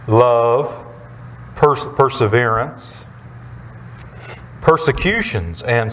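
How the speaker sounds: measured, deliberate Bible reading; scripture reading. Acted. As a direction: read scripture aloud, pausing between listed items. Reads scripture aloud to congregation.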